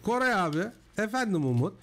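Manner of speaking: high, thin voice like a broken mic; mock what the bad mic sounds like; imitating bad mic. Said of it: "Bak şöyle duyuyorum Umut".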